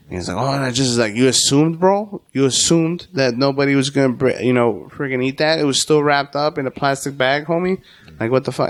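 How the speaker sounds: heated, rising retold rant; angry retold rant. Telling off the coworker who trashed his tacos, heated. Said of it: "I got up in his face".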